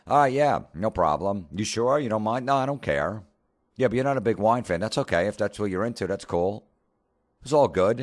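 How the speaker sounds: high-pitched, eager-to-please agreement; over-accommodating. Retold or imitated. Partner giving in to ex's love of wine, high and agreeable. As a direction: imitate someone breezily giving in to a partner.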